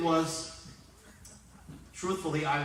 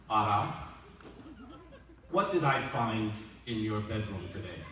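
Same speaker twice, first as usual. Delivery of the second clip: calm father; 5 semitones lower than usual. Retold or imitated. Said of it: "my father very calmly said".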